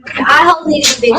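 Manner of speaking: quick impatient repeat; fast repeat. Real, not acted. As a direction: rattle it off fast.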